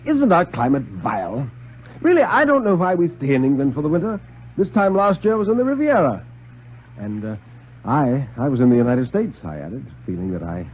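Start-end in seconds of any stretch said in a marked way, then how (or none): 0.1-6.3 small talk with a lightly put-on voice; lightly voiced friend. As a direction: Stone making small talk about the weather, voice climbing higher. Stone makes small talk.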